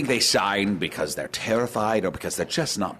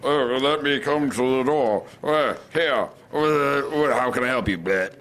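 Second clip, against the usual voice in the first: a hammed-up goblin greeting at the door; over-the-top goblin voice; 4 semitones higher than usual. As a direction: play the goblin broad and silly. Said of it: "That's offensive".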